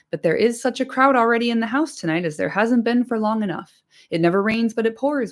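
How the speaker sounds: lightly voiced bustling innkeeper; chatty landlord. Butterbur apologising for the crowd, lightly voiced and chatty.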